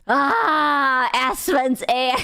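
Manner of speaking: hammed-up dreamy sigh of a starstruck fan; mock swooning fan. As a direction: pretend to swoon over the air. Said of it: "it's just like".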